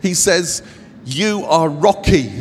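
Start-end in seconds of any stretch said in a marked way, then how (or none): 1.1-2.3 louder, mildly excited acted proclamation. Jesus to Peter after the right answer, mock excited proclamation. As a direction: hand out the title with a touch of excitement. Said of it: "so shocked and so excited".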